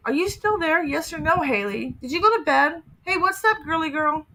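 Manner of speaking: pestering, over and over; pushy needy voice. Retold or imitated. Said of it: "reading his messages".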